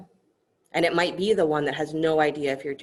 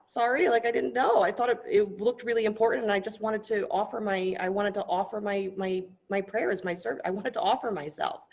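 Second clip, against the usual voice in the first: higher, flustered stammering apology; apologetic hunter; 7 semitones higher than usual. Acted. Hunter caught by the priest, higher flustered apology. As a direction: stumble over sorry like a caught kid. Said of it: "the hunter's like".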